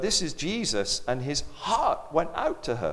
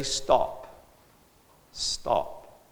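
whispered stop. Retold or imitated. Signal at funeral, unvoiced.

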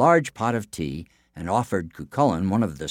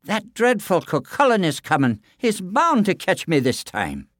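high, frightened giant's voice; fretful, frightened Finn; fearful cry; 11 semitones higher, 4 dB louder than usual. A narrator's reading. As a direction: wail it in fear. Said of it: "he cried".

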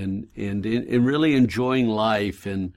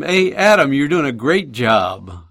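calling out to neighbor; 2 semitones higher, 4 dB louder than usual. Retold or imitated.

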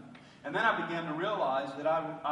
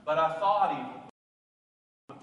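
louder and drawn out, self-accusing; loud slow confession; 7 dB louder, much slower than usual. Acted. Preacher voicing his own guilt to the congregation, loud and slow. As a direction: drag it out loud, owning the sin. Contrast with God's blessing.

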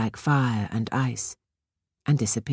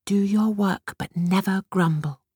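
obedient repeating; 6 semitones higher than usual. A narrator's reading. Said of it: "repeated Batushka obediently".

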